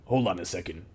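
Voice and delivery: doubting goblin, rising on the name; second goblin voice. Acted. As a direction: halt everyone, then question the name. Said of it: "the second voice go".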